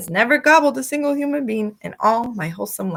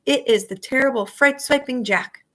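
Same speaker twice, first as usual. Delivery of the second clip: panicked giant; 8 semitones higher than usual. A narrator's reading. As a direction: wail in terror at each name. Giant panicking about Jack.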